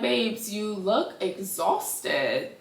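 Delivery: slow, soft pity, drawn out; pitying aside. Retold or imitated. Viewer softly pities the aging fighter, slow and drawn out. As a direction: talk to him like a worn-out friend.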